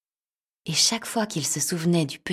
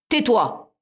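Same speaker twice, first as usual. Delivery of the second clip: snapping; 6 semitones higher, 6 dB louder than usual. Acted. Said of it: "coupa le chat".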